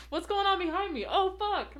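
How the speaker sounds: laugh-crying through the words; laughing hard. Real, not acted. Laughing so hard she nearly cries at the joke. Laughing fit, can't stop.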